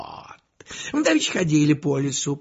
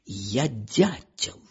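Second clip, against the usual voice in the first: crackly military radio; 3 semitones lower, 5 dB quieter than usual. Retold or imitated. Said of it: "людские голоса заговорили".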